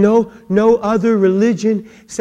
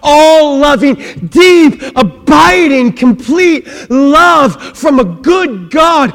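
rising louder to crying-out climax; building preaching; 4 semitones higher, 4 dB louder than usual. Acted. Preacher building to the congregation, louder. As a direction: build it to a fervent peak.

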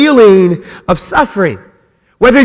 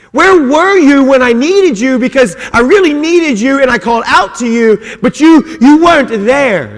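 1 anguished psalmist plea; 4 semitones higher than usual. Retold or imitated. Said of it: "That's what he says".

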